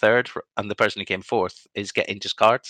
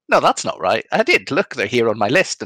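retold protest; 3 semitones higher, 5 dB louder than usual. Player retells objecting to opponent about his list, insistent protest. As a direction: protest as if sure you're right.

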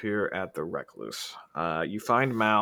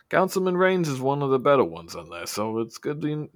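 higher, lively character voice; lightly voiced figure, raised in pitch; Faust; 5 semitones higher, 4 dB louder than usual. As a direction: pitch it up and chat briskly. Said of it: "And he goes".

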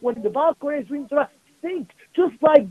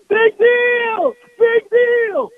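higher, louder dismissive cry; scoffing exclamation; 8 semitones higher, 5 dB louder, much slower than usual. Real, not acted. Rabbi scolding complainers about small bumps, loud scoff. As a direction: brush off the worry with a scoff.

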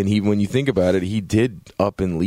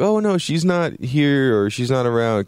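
lightly voiced, higher-pitched librarian; acted librarian; 5 semitones higher than usual. Librarian putting off a visitor asking for someone, lightly imitated. Voicing the librarian turning him away.

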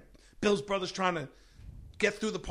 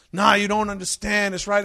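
put-on higher, louder drunk brother begging; a lightly voiced drunk brother pleading, higher; 5 semitones higher, 7 dB louder than usual. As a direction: whine your way to Burger King. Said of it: "brother pleading, drunk".

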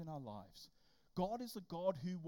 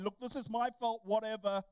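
loud resigned Jonah; 7 dB louder than usual. Retold or imitated. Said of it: "he's saying".

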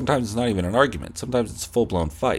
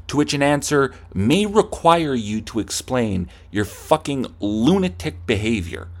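acted angry rant; 2 semitones higher than usual. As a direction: rant at an imaginary opponent. Acted rant at imaginary opponent.

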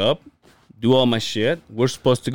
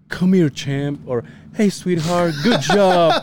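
hammed-up cheesy father, a bit higher; mock doting dad; 6 semitones higher, slower than usual. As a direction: play a corny sitcom dad, half laughing. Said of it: "it's not like I was like".

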